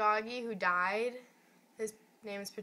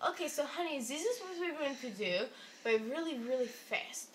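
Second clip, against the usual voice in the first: imitated Russian nurse, lightly accented; Russian-accented nurse talking a patient through it; 3 semitones higher, 3 dB quieter than usual. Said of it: "Oh, the Russian voice".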